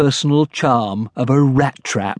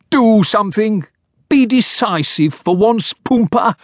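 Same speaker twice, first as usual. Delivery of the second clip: impatient demand; 10 semitones higher than usual. Acted. Podskalny character voice.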